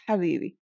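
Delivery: Habibi with a rasped throaty ha; strong Arabic ha. Shown as a demonstration. Teacher showing learners the strong ha, rasped. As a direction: breathe the ha of Habibi hard from the throat. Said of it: "it's this that, uh, Arabs are".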